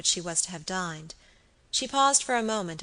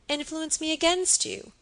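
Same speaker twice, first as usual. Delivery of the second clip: much higher-pitched astonished question; incredulous echo; 10 semitones higher than usual. A narrator's reading. Husband answering his wife's doubt, incredulous. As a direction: repeat it back in disbelief. Baronet echoes question in disbelief.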